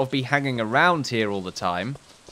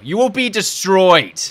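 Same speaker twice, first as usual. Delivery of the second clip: mock villain threat; 7 semitones higher, 6 dB louder, slower than usual.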